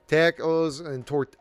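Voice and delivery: slow, tentative Midwestern accent. Shown as a demonstration. Podcaster searching for the accent, halting Midwestern. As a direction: draw out the Midwestern vowels slowly. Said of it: "I gotta get into that Mid-, Midwestern a-, accent".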